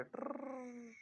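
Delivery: short soft tongue trill; rolled trill. Shown as a demonstration. Teacher repeats the full-turn noise for students, soft trill. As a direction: roll a quiet whirring "trrr". Imitates noise of going round circle.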